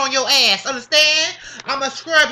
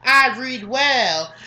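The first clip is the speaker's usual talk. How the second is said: deliberate reading; slower than usual. Shown as a demonstration. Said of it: "you see how fast I can read".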